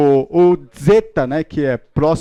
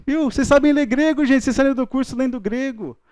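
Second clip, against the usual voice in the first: excited praise; 9 semitones higher than usual. Real, not acted. Teacher cheering class on.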